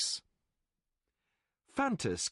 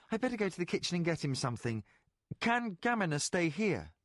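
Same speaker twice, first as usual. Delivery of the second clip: put-on hurried boy William; 4 semitones higher than usual. William hurrying off.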